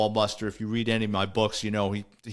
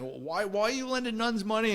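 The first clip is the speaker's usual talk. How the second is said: incredulous dad; 10 semitones higher, 4 dB quieter than usual. Retold or imitated. Father's incredulous question.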